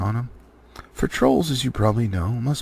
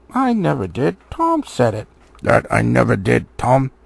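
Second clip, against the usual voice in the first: louder, pitched-up denial; troll bickering; 6 dB louder than usual. Acted. Trolls quarrelling over who said it. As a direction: insist you never did.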